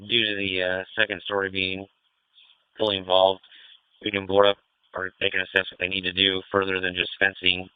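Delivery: crackly two-way radio; police radio. Real, not acted. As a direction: speak over a handheld radio. Fireground radio traffic.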